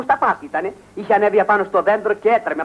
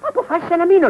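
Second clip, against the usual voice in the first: raised and higher, insisting; repeated louder; 10 semitones higher, 4 dB louder than usual. Acted. Repeating his decision to her, louder and insistent. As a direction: say it again louder so he hears. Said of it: "λέω".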